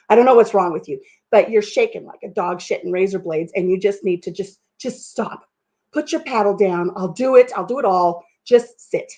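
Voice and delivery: mildly exasperated retold telling-off; frustrated husband. Husband ordering wife to stop paddling, mock frustration. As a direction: imitate a husband at the end of his patience. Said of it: "he's clearly frustrated".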